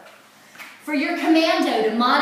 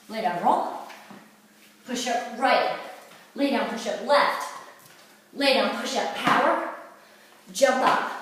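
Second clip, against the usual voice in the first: winded, puffing between cues; short of breath after the exercise. Real, not acted. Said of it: "I only did two and I'm winded".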